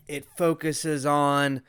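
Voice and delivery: words broken by hiccups. Real, not acted. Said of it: "I got the hiccups".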